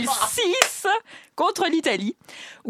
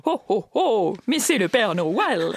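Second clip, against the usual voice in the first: mild ho ho ho, a touch lower; Santa voice; 5 semitones lower, slower than usual. Acted. Presenter joking about Santa, lightly voiced. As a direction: lightly play Father Christmas. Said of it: "T'imites tout le monde".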